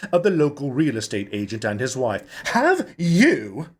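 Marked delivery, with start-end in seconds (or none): 2.5-3.7 put-on higher, urgent older woman; lightly voiced anxious director. A narrator's reading. Mrs Hatfield asking the couple, urgent and high. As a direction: press them for an answer.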